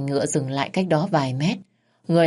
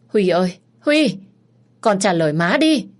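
loud, the name jumping much higher; calling out in alarm; 4 semitones higher, 5 dB louder than usual. Acted. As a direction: shout the boy's name through the door. Mother calls through locked door.

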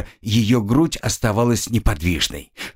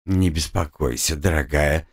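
absent-minded; 7 semitones lower than usual. A narrator's reading. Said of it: "рассеянно кивнула".

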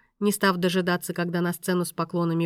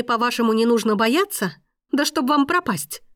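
much higher, louder, near-hysterical protest; frightened outrage; 5 semitones higher, 5 dB louder than usual. Acted. Woman terrified after seeing the killers, furious panic. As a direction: throw his words back at him in panic.

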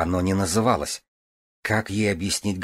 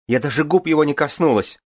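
tearful outcry; 8 semitones higher, 6 dB louder than usual. A narrator's reading. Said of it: "вскричала Игрейна, заливаясь слезами".

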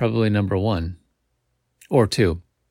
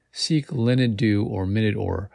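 ordinary delivery

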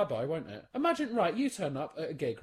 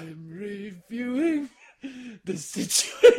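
slow, scheming Fagin drawl, laughing; Fagin impression; 3 semitones higher, 8 dB louder, much slower than usual. Switching his act for the co-host: hammed-up Fagin. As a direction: savour it like a sly old villain. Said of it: "you being Fagin now".

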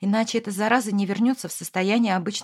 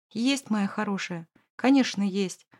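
smiling. Acted. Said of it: "улыбнулся Эмир".

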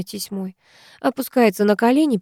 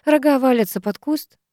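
ordinary delivery

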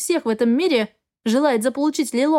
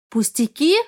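hissed. Acted. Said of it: "зашипела я".

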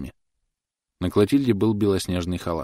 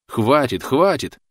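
higher, louder cry; shout; 7 semitones higher, 6 dB louder, much slower than usual. A narrator's reading. Thomas shouting at Clotilde to stop. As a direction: shout her down. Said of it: "закричал он".

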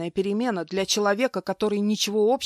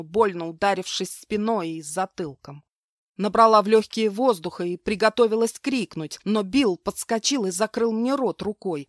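ordinary delivery

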